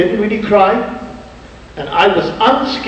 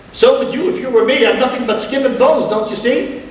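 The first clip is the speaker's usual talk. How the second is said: retold sobbing plea; 7 semitones higher than usual. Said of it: "I began to cry terribly and sob".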